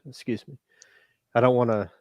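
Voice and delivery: ordinary delivery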